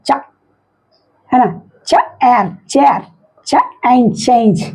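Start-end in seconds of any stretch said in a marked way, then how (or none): 0.1-0.1 "चा" as one short "cha" sound. Shown as a demonstration. Teacher showing learners the CH sound, short phonics "चा". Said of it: "इसका उच्चारण क्या हो रहा है". 1.9-4.6 "चा", pause, "एयर", then joined "चेयर"; phonics blending. Shown as a demonstration. Teacher blending CH words for learners, "चेयर" and "चेंज" sounded out in parts. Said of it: "इसका उच्चारण क्या हो रहा है".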